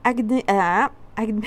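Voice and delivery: real fumbled reading, laughing at yourself; can't get the word out, laughing; tongue-tied. Real, not acted. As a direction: stumble over the word and break into a laugh. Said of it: "j'arrive plus à parler".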